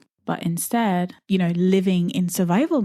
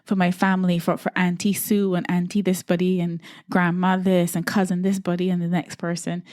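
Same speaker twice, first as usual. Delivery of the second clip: light Jamaican accent, imitating brother; hint of a Jamaican brother. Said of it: "in his strong Jamaican accent".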